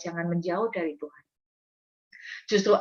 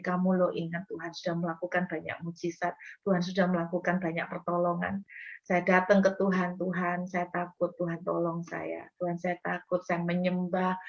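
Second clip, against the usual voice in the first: soft, hushed words to herself; quiet self-talk; 6 dB quieter than usual. Retold or imitated. Preacher reminding herself of God's help, softly. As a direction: murmur it gently to yourself. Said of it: "Saya berkata kepada diri saya sendiri".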